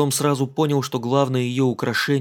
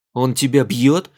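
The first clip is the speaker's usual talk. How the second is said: bristling; 5 dB louder, slower than usual. Acted. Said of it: "Том ощетинился".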